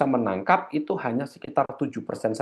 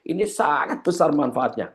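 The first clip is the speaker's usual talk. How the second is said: SANGAT stretched out and raised; penekanan intonasi; 4 semitones higher than usual. Shown as a demonstration. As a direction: lean hard on "sangat", pitched up. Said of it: "Berarti harus ada intonasi". (kata "sangat" dipanjangkan dengan nada naik)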